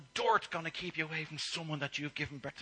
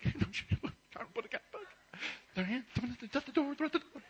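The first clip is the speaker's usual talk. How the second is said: put-on excited kids; 12 semitones higher than usual. Kids calling out excitedly, high and giddy. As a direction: squeal like eager children.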